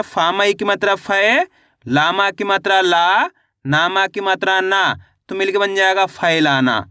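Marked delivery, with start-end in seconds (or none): 0.0-4.8 sing-song spelling, "फै" and "ला" stretched upward; teacher's drill, lifting "फै" and "ला", settling on "ना"; spelling-out demonstration. Shown as a demonstration. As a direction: draw out each built syllable, "फै", "ला", then "ना". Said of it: "तो फा को अपन कैसे पढ़ेंगे".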